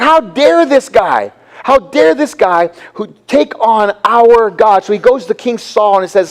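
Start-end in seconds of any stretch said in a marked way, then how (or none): 0.0-4.8 slow, drawn-out indignation; mad David, retold. Preacher voicing David offended for his God, indignant. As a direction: stretch out the mock outrage. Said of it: "And David gets mad".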